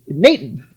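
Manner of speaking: "Nathan" said with a plain T for the TH; drawn-out German-style "Nathan", TH hardened to T. Retold or imitated. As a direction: say "Nathan" as Nay-tan. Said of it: "they don't put the T H".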